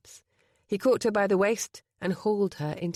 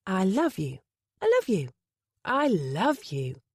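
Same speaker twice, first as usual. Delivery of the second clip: parrot voice. Acted. Parrot repeating phrase.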